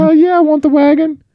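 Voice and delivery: high, hammed-up Boston accent. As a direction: camp it up in a bad Boston accent. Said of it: "me doing an awful B-, Boston accent".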